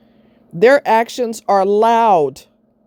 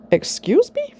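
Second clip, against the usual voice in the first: indignant excuse me. Real, not acted. Indignant at being yelled at.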